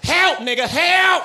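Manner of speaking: Dave Chappelle. Retold or imitated. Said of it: "It would sound like Dave Chappelle".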